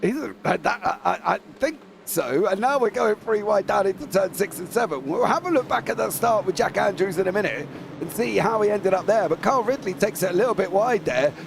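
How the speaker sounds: brisk live race call; motorsport commentator. Acted.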